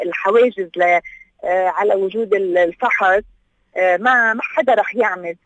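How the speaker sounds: ordinary talk, nothing marked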